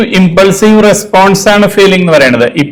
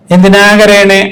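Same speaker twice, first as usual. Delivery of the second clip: put-on slow, higher voice asking a crying child; slow questioning adult to child; consoling adult; 5 semitones higher, slower than usual. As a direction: ask gently like a grown-up to a child. Teacher voicing adult consoling child.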